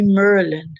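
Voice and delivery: "Merlin" with an er in the first syllable; mispronounced name. Retold or imitated. Showing how people get her name wrong, mispronounced "Merlin". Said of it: "I hate it when I mispronounce people's name".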